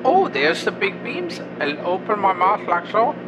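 mushroom creature voice. Acted. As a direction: play a polite mushroom monster caller. Caller plays Heimlich throughout.

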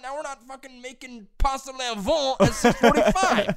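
high, loud sarcastic rant; mock outraged comeback. Son retelling his comeback to early-rising mom, mock outraged comeback. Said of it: "this is what I did this morning".

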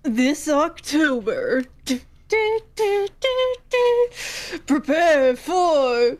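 slow, dramatic trailer announcer; movie trailer voice. Acted. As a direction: build suspense like a horror trailer. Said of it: "I will act it".

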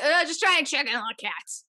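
a hint of a slurred tipsy friend, laughing; lightly voiced drunk pal; playful mock of a rambling friend; mocking Joe. Imitating Joe at the door.

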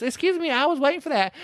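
high, prim, polite complaint; Evelyn voice. Retold or imitated. Retelling Evelyn losing a parking space, high and prim. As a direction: pitch up into a timid lady.

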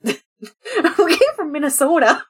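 laughing. Real, not acted. Laughing in character.

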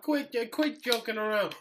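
hammed-up Batman. Playing Batman.

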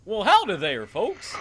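cartoon goofball with a folksy drawl; Goofy voice. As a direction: greet them like a dopey cartoon dog. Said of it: "Goofy's with him too".

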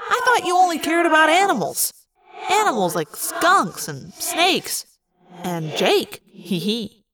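high mock reproach, slowing to a sly finish; Marco, teasing. Marco needles Cassie about animals and Jake, teasing.

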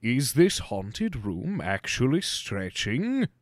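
slow theatrical pirate captain voice; a hint of a pompous pirate captain; accidental Captain Hook. Trying the ghost host but drifting into a slow pirate captain. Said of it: "No, that's Captain Hook".

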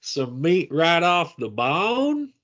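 hammed-up Southern Gimli; deep Georgian accent. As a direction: play a dwarf from deep Georgia. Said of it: "Gimli as a dwarf with a deep Georgian accent".

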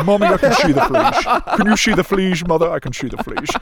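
put-on high, excited little kid voice; a kid squealing to mom; child voice. Child voice in acted scene.

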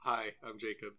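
talking through chocolate; mouth full. Real, not acted. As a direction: say it around a mouthful. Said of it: "I'm eating chocolate".

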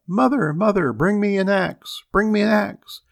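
high, loud urgent call. A narrator's reading. Boy calling his mother for an axe, urgent high shout. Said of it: "So he called out".

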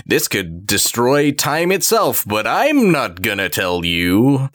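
drawn-out, mocking withholding of a secret; mock cryptic. Podcaster mimicking the owner who won't explain, slow mock-cryptic. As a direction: stretch the words out slowly, teasingly ominous. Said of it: "why he's being so cryptic about it".

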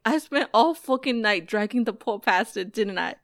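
lightly voiced gangster rant; a hint of the angry gangster; recited movie line. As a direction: recite it half in character. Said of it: "And he's like".

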